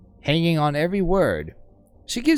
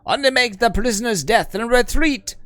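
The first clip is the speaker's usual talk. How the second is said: commanding overseer; 7 semitones higher, 3 dB louder than usual. Acted. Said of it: "The Overseer signals the levies".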